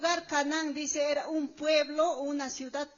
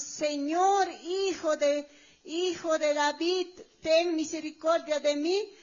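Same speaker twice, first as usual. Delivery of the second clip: mildly raised imitation of a shout; crying out; 3 dB louder than usual. Preacher showing the woman's cry to Jesus, raised voice. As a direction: lift the voice in a pleading call. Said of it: "la mujer está gritando, está alzando su voz".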